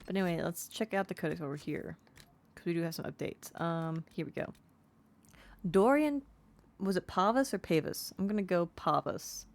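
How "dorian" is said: called out high and loud; bright title call; 1 loud announcement. Real, not acted. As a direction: announce the name with a flourish. Announcing codex entry name.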